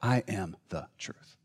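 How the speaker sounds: Jesus comforting. Acted. Jesus speaking tenderly to a broken listener. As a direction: speak it low to a hurting child. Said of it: "Jesus stands next to us ... and says".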